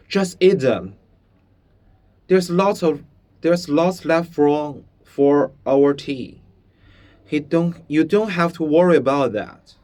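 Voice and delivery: put-on high, loud boy urging his friend; insistent young boy. A narrator's reading. Bruno pushing chicken into Shmuel's hand, high and loud. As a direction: press the food on him, eager and bossy.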